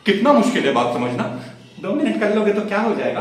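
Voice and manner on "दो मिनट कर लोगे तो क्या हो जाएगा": lightly mimicked girlfriend, higher pitch; mock her coaxing on the phone; pleading girlfriend. (प्रेमिका की मनुहार की हल्की नकल)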